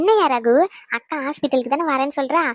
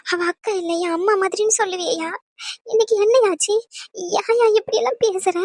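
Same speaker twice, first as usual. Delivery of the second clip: upset high protest; 7 semitones higher than usual. Acted. Wife confronting Ragu in a family quarrel, high distressed protest. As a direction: pitch up high and rising in distress.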